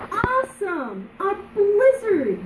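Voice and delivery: high slow overjoyed shout; excited cry. Acted. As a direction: burst out in pure joy. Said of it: "he cried".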